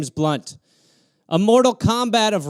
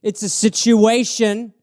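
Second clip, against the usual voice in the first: mock retort; 4 dB louder, slower than usual. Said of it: "You're like".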